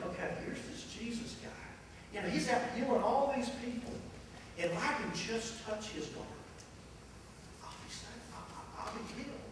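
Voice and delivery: hushed, half-whispered hoping; quiet whispered hope of the sick woman; woman's hushed thought. Retold or imitated. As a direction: breathe it like a secret wish.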